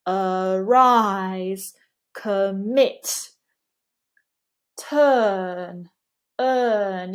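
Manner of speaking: neutral "uh" opening "Arise" and "commit", strong second syllable; drawn-out non-rhotic "turn" and "earn"; unrounded central vowels. Shown as a demonstration. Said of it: "we just don't round the lips".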